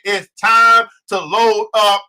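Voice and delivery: slow, weighty call to action; telling a friend it's time to move; slow declaration. Retold or imitated. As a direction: lay each word down slowly. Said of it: "I said".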